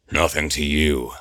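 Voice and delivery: put-on slurred drunken mumble; slurred, gravelly. A narrator's reading. Eamon answering Gabriel from the dark, slurred. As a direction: let the words slur together. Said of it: "slurs a gravelly voice".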